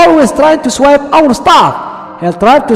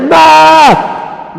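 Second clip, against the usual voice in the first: louder; 4 semitones higher than usual. Shown as a demonstration. Asking kids to say map louder, called out. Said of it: "But say louder".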